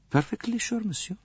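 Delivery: high, soft, clipped insistence; firm Countess. A narrator's reading. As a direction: insist with icy calm.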